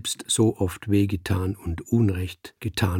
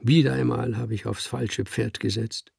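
schluchzend; 5 semitones higher than usual. Acted. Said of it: "schluchzte er".

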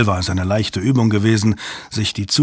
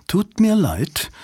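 curt refusal; 9 semitones higher, slower than usual. Acted. Impatient clerk refusing.

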